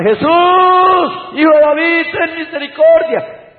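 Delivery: high, loud desperate plea; crying out. Retold or imitated. Blind beggar crying out to Jesus, loud and high. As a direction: call out to Jesus across the crowd. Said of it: "empezó a clamar".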